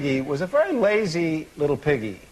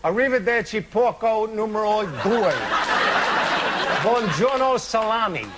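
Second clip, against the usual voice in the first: gleeful wolf; 5 semitones higher than usual. Acted. Wolf blows house, Italian farewell.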